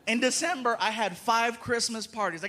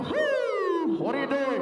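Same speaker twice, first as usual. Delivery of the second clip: cop shout; 6 semitones higher, much slower than usual. Retold or imitated. Cop stopping him.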